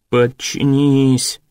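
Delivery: slow, low drawn-out growl; a horse snarling a command. A narrator's reading. Horse Acorn growls at the soldiers, slow and low. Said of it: "прорычал желудь".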